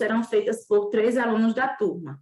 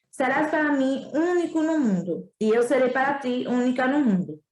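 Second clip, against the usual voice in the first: fox voice; 2 semitones higher than usual. Acted. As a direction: explain gently as the fox. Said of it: "disse a raposa". (a raposa explica ao príncipe, com ternura)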